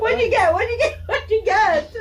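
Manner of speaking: high, loud, insistent questioning; keyed-up repeated asking; urgent excitement. Real, not acted. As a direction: demand the answer, bursting to know. Urgently asking what flavor she got.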